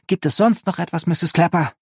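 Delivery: high-pitched, strained politeness; teeth-gritted. A narrator's reading. Linus trying to end the talk with his neighbour, teeth-gritted. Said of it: "fragte Linus zähneknirschend".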